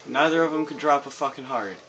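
raging gamer. Real, not acted. Complaining no heart dropped.

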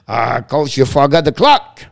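half-laughing loud callout to the coach; calling out. Real, not acted. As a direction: raise the voice to reach the coach.

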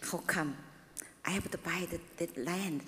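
hushed, breathy self-question; whispered inner question. Retold or imitated. Preacher recalls doubting the land purchase, whispered. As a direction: whisper it as if asking herself.

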